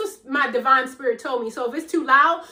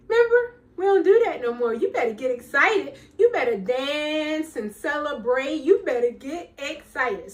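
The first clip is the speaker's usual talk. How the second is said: inner pep talk; 3 semitones higher than usual. Pretend. Her energy urging her on, excited push. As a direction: hype yourself up. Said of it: "My energy say".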